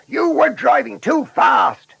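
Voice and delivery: high, loud, indignant shout. A narrator's reading. Shepherd and bus driver running up to Blunderbuss, shouting. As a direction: shout the accusation at a reckless driver. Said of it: "ran up shouting".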